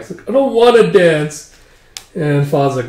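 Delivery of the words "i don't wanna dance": slow, high, loud sulky bride; whiny refusal. Retold or imitated. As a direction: drag it out in a mock whine. Crying bride refuses to dance.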